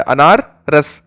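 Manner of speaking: अनार रस said very slowly, each word held apart; slow, deliberate अनार रस; slow emphatic drill. Shown as a demonstration. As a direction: draw out अनार रस so it sticks. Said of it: "अनार का रस निकालना कैसा होता है?".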